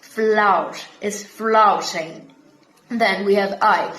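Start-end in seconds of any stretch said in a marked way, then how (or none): 0.0-2.3 slow, "Flout" and "flouting" with an OW vowel; drawn-out Brummie "float is floating". Shown as a demonstration. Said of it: "O की sound है out".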